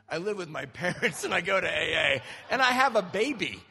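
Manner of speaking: loud, laughing through the words; cracking himself up mid-sentence; laughing while talking. Real, not acted. Speaker telling the crowd his own punchline, laughing loudly.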